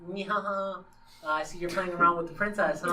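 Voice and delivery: a sly nyhaha cackle, then teasing; mock villain laugh. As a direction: play the sneaky laugh lightly. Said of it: "that's her exact laugh".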